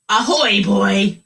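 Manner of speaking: hearty pirate bus driver greeting. Acted. Reading aloud, pirate driver greets the boy. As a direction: growl out a pirate ahoy.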